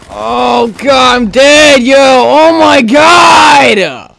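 long, drawn-out cry of defeat; despairing yell. Real, not acted. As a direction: wail it out, stretching the last words. Dying in the game.

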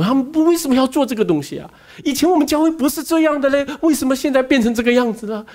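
mildly voicing a bewildered churchgoer's lament; pained church members. Retelling hurt members asking why church changed, mild plaintive complaint. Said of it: "有一些弟兄姐妹是很痛苦的".

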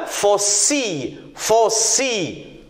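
Faucille slowly, as two beats, fau-cille; syllable by syllable. Shown as a demonstration. Teacher sounding out a word for pupils, Faucille in slow syllables. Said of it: "Combien de syllabes?".

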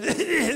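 mock theatre-audience coughs; imitated coughing. Imitating audiences once seated in theatres, mock coughing. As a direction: splutter out a run of put-on coughs. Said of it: "heerlijk om te kuchen".

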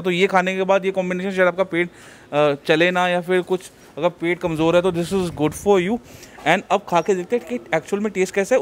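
muffled behind cloth mask; speaking with covered mouth; through a face mask. Real, not acted. Seen 3: Speaker visibly wears teal patterned cloth mask over mouth throughout.

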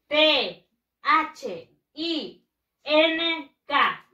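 letters T H I N K said one by one, very slowly; spelling it out. Shown as a demonstration. Teacher spelling the word for her class, slow and deliberate. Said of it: "vamos a escribirlo así".

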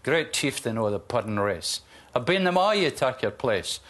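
a Burns recital in a light Scottish accent; reciting Burns to show hosts real Scottish. Shown as a demonstration. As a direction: recite To a Haggis with a Scottish lilt. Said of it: "That's Scottish".

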